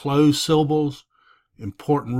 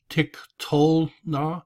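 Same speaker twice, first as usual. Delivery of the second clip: "tiktolna" slow and higher, stressing "tol"; stressed middle syllable; 4 semitones higher, slower than usual. Shown as a demonstration. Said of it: "Notice the accent".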